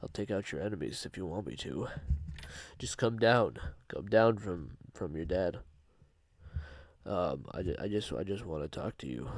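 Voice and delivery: wolf promising to be a puppy; creepy pleading monster. Retold or imitated. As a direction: beg him to come down with fake kindness. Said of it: "He'd be like".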